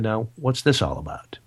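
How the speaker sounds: a hushed whisper to himself; an unvoiced whisper, kept under the breath; whispered thought. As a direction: whisper it like a private inner thought. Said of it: "And I'm thinking".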